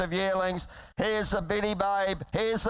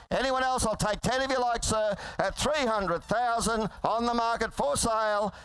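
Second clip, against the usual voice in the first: rapid rolling auctioneer chant; frantic trading floor shouting; 2 semitones higher than usual. Real, not acted. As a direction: rattle off the bids like an auctioneer. Auctioneer calling bids.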